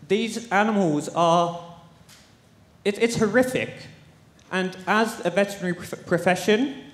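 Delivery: emotional appeal, pitch lifted, pausing to find words; real, shaken emotion. Real, not acted. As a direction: plead from the heart, visibly shaken. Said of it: "I'm sorry, I'm shaking right now".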